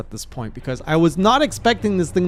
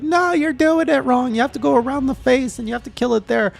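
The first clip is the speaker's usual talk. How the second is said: the chat lecturing the player; high, slowed mock nagging from chat; chat correcting; 8 semitones higher than usual. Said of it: "they're like".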